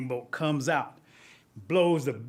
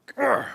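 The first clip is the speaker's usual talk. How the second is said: effort growl; 10 semitones higher, 7 dB louder than usual. Acted. Turtle straining to break stick.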